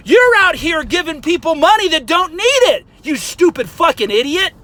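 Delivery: loud angry insult; fired up. Real, not acted. Insulting coffee buyers at the peak of the rant, loud. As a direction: spit it at them. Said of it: "I got a little hot".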